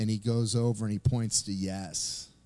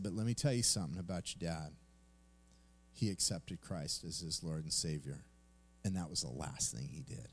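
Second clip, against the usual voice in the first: softer, lower, tender telling; gentle comfort; 3 semitones lower, 5 dB quieter than usual. Retold or imitated. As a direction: soothe her with the good news. Comforting grieving daughter about father.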